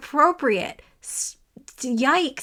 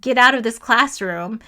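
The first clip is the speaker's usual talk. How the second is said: louder, firm command to leave; mock stern order; 6 dB louder than usual. Hiring committee ordering rude student out, loud mock command. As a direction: throw him out with a raised voice. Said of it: "would be like".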